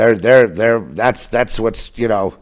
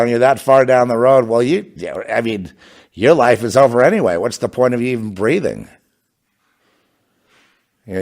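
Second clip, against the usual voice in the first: ordinary talk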